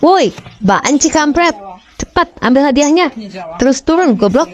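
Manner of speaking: crowd yelling. Acted. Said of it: "pada berteriak".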